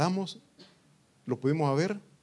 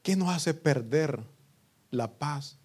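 usual speaking voice

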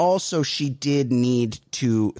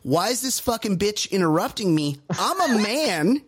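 mock entitled man; 6 semitones higher than usual. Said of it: "His immediate reflex is".

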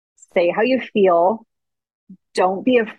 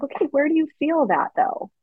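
mock gentle mother asking questions; gentle mom; 8 semitones higher than usual. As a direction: coax a small child kindly. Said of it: "My mom would be like".

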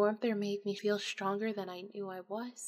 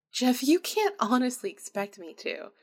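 disbelieving laugh; 3 semitones higher, 7 dB louder than usual. Acted.

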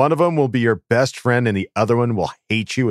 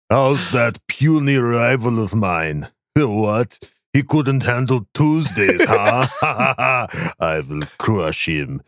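put-on Russian accent. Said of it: "this is Craig's old Russian rival".

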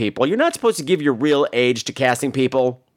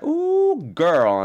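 tag playful sass; 5 semitones higher than usual. Retold or imitated. Star's playful sassy reply.

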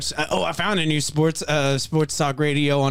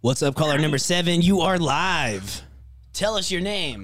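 radio host voice; 3 semitones higher than usual. Pretend. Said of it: "You're on speakerphone with the whole nation".

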